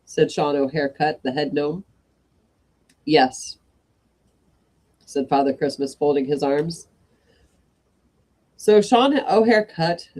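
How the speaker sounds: steady storytelling voice; story narration. A narrator's reading. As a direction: read it like a bedtime story. Reads a story aloud.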